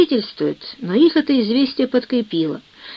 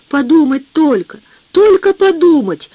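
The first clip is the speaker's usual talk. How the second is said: building from louder to much higher and louder; breathless indignation; 6 semitones higher, 5 dB louder than usual. A narrator's reading. Helen outraged at her mother, indignation building. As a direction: choke up with outrage. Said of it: "Она задыхалась от негодования".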